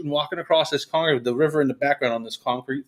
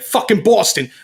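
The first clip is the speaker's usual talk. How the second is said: imitated hyped performer; 6 semitones higher than usual. Imitates song performance starting.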